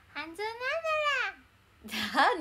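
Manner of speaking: high, loud character voice with a comic sentence ending; Hanzo impression. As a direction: throw out Hanzo's catchphrase loudly. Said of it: "似てない". (半蔵の声真似)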